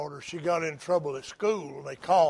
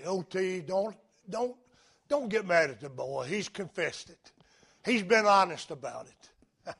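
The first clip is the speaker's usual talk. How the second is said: pleading mother; 4 dB quieter than usual. Retold or imitated. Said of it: "she pleaded with him".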